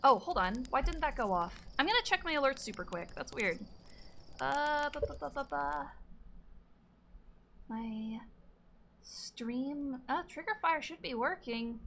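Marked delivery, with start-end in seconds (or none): 4.4-5.9 soft little "ba, ba, ba" filler; idle ba-ba vocalising. Real, not acted. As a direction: burble syllables softly while busy. Idly vocalising while checking alerts.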